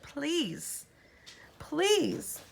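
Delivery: high, pleading, frightened please; shaking plea. A narrator's reading. Freddie begs in fear, high and shaking. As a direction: beg with a trembling voice. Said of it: "his voice shaking".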